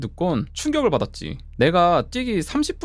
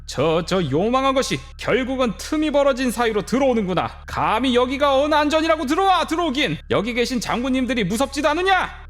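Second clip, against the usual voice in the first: higher, indignant rebuke of a spirit; stern scolding; 9 semitones higher than usual. A narrator's reading. Grandmother shaman rebuking the evil spirit, high and indignant. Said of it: "하곤 소리 지르셨대".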